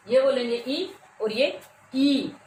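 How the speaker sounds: ई short then ई held long. Shown as a demonstration. Teacher contrasts short and long vowels for pupils, slowly. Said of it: "दुगना समय लगता है".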